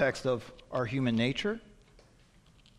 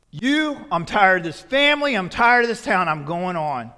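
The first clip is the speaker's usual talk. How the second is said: fed-up son demanding his share, louder; defiant son; 6 dB louder than usual. Acted. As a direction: throw out an impatient, loud demand at your father. Preacher acts son's defiant demand.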